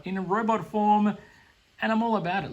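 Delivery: thrilled fan outburst; excited burst. Real, not acted. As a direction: gush with sudden energy. Excited about the dragon.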